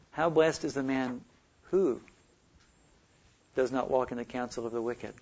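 WHO set apart by pauses; measured reading with a lone, lifted WHO; stress on WHO. Shown as a demonstration. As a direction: isolate WHO, then wait before going on. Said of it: "Emphasizing one word after another".

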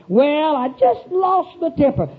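slow, put-on apologetic intonation; mock apologetic excuse. Preacher mimics the excuse never to say again, slow mock apology. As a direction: drag out a mocked lame excuse. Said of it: "an apologetic intonation in your voice".

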